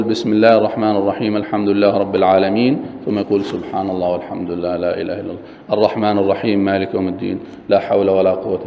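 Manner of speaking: fast, running quote of verses and dhikr; rushed recitation. Shown as a demonstration. Teacher showing dhikr inserted between verses. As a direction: run it all together quickly. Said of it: "ما يصح أن يقول".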